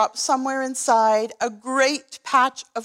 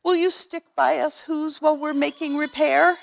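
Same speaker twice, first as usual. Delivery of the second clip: higher, lightly voiced pleading mayor; 5 semitones higher than usual. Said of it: "pled the voice of the mayor".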